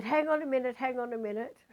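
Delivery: imitating the ghost calling her back; urgent call to wait. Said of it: "he said".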